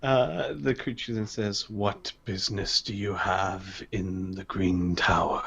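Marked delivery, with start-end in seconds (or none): 1.7-5.4 deep rumbling behemoth voice; a hushed, rumbling guard's challenge; ultra low rumble. Acted. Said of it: "a deep rumbling voice".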